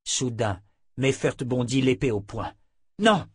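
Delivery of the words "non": sudden high, loud "Non!"; a sharp shouted warning, much higher and louder. A narrator's reading. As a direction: cry out to stop the blow. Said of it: "cria Richard".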